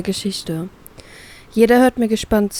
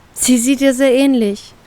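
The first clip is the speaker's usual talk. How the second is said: gently smiling, a bit higher; 4 semitones higher than usual. Acted. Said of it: "stelle ich lächelnd fest".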